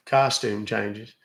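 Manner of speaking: "Costume changes" said very slowly, each word drawn out; slow, emphatic repeat. Shown as a demonstration. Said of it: "Yeah, I said it".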